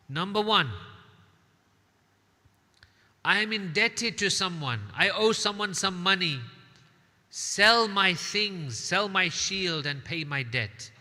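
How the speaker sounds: condemned man's final request, loud and high; impassioned plea. Acted. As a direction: plead it out with full force. Muslim's last requests.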